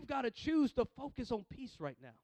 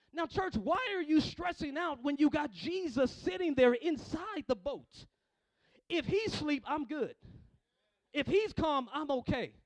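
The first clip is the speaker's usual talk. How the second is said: raised, urgent sermon voice; full-force preaching; 5 semitones higher, 6 dB louder than usual. Real, not acted. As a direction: preach it out to the congregation.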